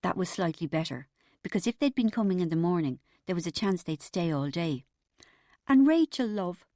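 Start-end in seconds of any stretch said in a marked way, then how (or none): 5.7-6.6 tearful mild appeal; understated maternal upset; near tears. A narrator's reading. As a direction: plead as if about to cry. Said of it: "Mum sounded like she was going to cry".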